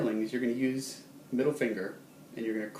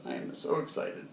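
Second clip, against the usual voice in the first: hushed excitement; 4 semitones higher than usual. Shown as a demonstration. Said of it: "happy feelings just bubbling up".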